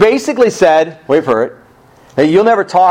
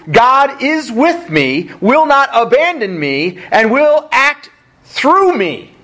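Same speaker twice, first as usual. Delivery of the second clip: slow rising preaching; 6 semitones higher, slower than usual. Real, not acted. Sermon climax on God's faithfulness.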